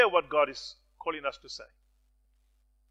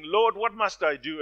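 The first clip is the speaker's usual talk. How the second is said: pleading; 3 semitones higher, 6 dB louder than usual. Retold or imitated. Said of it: "he pleaded again".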